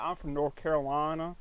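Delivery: put-on thick Southern US accent; deep Southern accent. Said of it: "throw on this real deep Southern accent".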